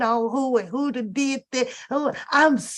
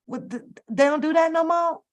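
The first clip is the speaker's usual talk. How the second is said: incredulous question; 7 semitones higher than usual. Real, not acted. Vlogger to viewers about couples no longer faithful, higher incredulous question. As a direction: pitch jumps up in disbelief. Disbelief at celebrity cheating.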